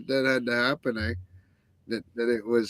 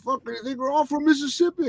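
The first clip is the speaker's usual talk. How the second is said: retold angry challenge; 12 semitones higher than usual. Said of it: "He said".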